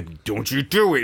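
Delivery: drawn-out mock command; slow, exaggerated telling-off; mock stern warning. Parent showing what it wasn't, slow mock-stern warning. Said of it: "It wasn't like a".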